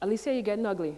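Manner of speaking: put-on distinct Caribbean-accented older woman voice. Retelling what an aunt said to her at eleven: distinct caribbean accent. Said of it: "with her distinct Caribbean accent".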